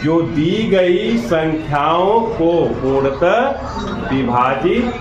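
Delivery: measured, stretched-out definition with pauses; slow dictation. Real, not acted. Teacher defining the term for students, slow dictation. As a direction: dictate it slowly, phrase by phrase.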